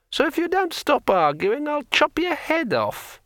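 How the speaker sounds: a sword coolly threatening its owner; threatening talking sword. A narrator's reading.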